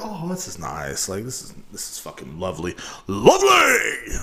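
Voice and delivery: fake-sob it like it's beautiful; hammed-up weepy awe; mock tearful rapture. Mock swooning over sound.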